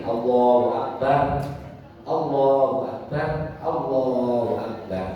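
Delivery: each Allahu Akbar ended with a full stop before the next; separated takbir phrases; broken-off takbir. Shown as a demonstration. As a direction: pause cleanly between every Allahu Akbar. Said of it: "boleh begini".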